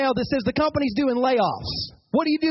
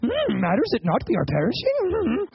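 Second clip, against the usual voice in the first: lightly voiced Yoda, a hum at the end; a hint of wise little Yoda musing; playful Yoda impression. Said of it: "It's like Yoda speak".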